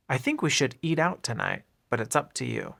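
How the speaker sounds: "up to" linked, with "to" reduced to "tuh"; linked words. Shown as a demonstration. Teacher repeats the example for learners, linking "up to". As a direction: run "up to" together as "upta". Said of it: "are linked together".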